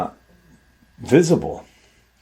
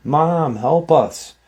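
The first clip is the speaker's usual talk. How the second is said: mild mock scream, higher pitched; understated cry for help, voice raised in pitch; retold scream; 5 semitones higher than usual. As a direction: imitate a boy calling to mom for help. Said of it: "youngest son scream".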